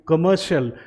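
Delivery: कमर्शियल as "kuh-MER-shul"; correct pronunciation. Shown as a demonstration. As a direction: say कमर्शियल with a short "shul" ending. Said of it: "हम बोलेंगे".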